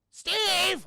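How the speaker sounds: loud, high holler; acted shout for someone missing; shouted call. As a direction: holler the name, drawn out and high. Calls louder for missing Steve.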